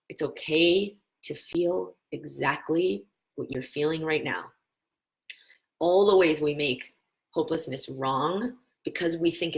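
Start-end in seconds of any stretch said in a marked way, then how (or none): 0.1-4.5 slow, gentle self-comfort; tender reassurance. Shown as a demonstration. Speaking to the hopeless part within, slow and tender. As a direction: say it slowly to the hopeless part of you. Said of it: "tell the one who feels hopeless".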